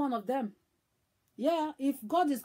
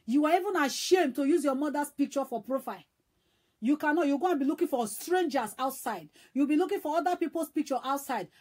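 raised, louder scolding rebuke; 3 semitones higher, 4 dB louder than usual. Real, not acted. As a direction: tell them off with rising heat. Scolding children ashamed of mothers.

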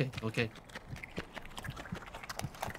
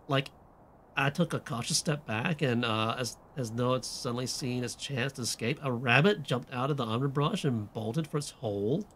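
put-on valley girl slipping southern. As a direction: read it as a pretentious teen, drifting Southern. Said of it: "this does not sound like a valley girl".

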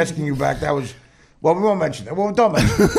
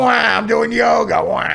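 mock crying wail; 2 semitones higher, 4 dB louder, slower than usual. Mocking Mike crying in yoga.

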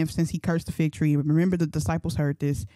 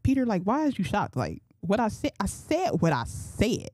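nonchalant; 4 semitones higher than usual. Acted. Jesus answering shocked Peter, nonchalant. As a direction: shrug it off, unbothered. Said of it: "he was nonchalant".

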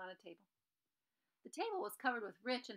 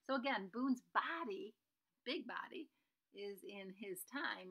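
whisper; slower than usual. Acted. Whispered recap to the listener.

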